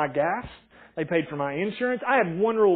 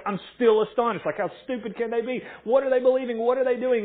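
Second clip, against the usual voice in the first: incredulous disbelief; 6 semitones higher than usual. Retold or imitated. Paul's ongoing disbelief.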